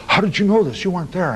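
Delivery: high-pitched incredulous questioning; imitated shock. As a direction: act out astonishment, voice leaping up. Retold killer shocked at being found out.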